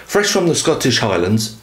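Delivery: a cheesy put-on Scottish accent; bad Scottish accent. Reviewer reading the maker's blurb in a bad Scottish accent. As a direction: ham up the Scottish lilt, knowingly bad. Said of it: "really bad accent".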